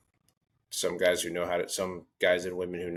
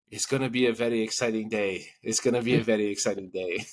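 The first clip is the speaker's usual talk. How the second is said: put-on higher, measured Japanese-accented announcement; mock Japanese accent; 3 semitones higher than usual. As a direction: imitate the executive addressing his friend. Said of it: "Japanese executives".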